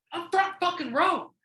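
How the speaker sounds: high, loud and slow, savoring it; telling his podcast cohost about front row seats, thrilled; thrilled exclamation. Real, not acted. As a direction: announce the jackpot. Thrilled at surprise tickets.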